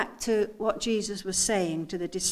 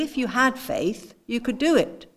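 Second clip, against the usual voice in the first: "had" punched, "do it" louder; stress on had; 5 dB louder than usual. Shown as a demonstration. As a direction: hit "had" to imply they lack it. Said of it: "I want you to get the inflection in my voice".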